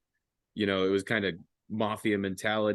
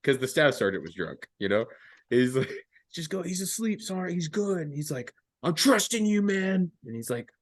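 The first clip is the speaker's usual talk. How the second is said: high put-on voices; 11 semitones higher than usual. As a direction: voice them high and thin. Buddy and sergeant voiced high.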